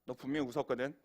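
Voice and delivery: 낮고 작게 따지는 흉내; 언짢은 하나님 역을 낮은 목소리로. Acted. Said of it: "약간 빈정상하셨어요". (약간 삐친 듯 낮게 단언)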